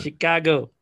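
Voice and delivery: lightly put-on Chicago accent. Shown as a demonstration. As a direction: say Chicago with a local Chicago twang. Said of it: "trying to do the Chicago accent".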